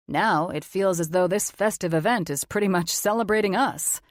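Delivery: a mature man, calm and sure of himself; authoritative confident man. Acted. Logan voiced as man.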